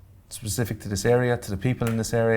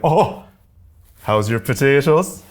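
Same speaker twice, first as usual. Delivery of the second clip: slow, loud mock Aussie bloke; imitating the petrol station guy; 3 semitones higher, 5 dB louder, slower than usual. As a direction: drag out the cheeky question like the guy did. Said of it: "And the guy says to me".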